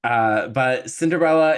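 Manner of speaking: ordinary delivery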